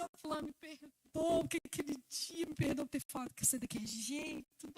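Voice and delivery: reluctant apology. Acted. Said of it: "esse tem que falar assim".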